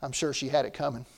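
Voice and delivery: low, very soft confidential aside; whispered aside. Acted. Ambassador leaning over to the president, whispered reply. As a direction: lean in and whisper it discreetly. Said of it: "leaned over and whispered".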